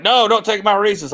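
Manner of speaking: high mock whine of a child; whiny kid imitation. Father imitating his kids guarding their candy, high and whiny.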